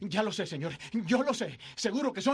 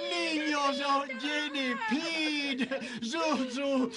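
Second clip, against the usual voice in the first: tearful; 2 semitones higher, much slower than usual. Acted. George weeps seeing children.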